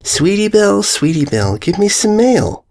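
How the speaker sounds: high, goofy sing-song call; high, dopey mail-begging pony; Derpy calling. Acted. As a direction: sing it up at the filly. Derpy calls the filly.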